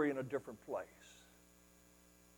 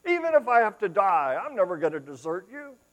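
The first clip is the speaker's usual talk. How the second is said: bold vow; 6 semitones higher, 10 dB louder than usual. Acted. Peter vowing again.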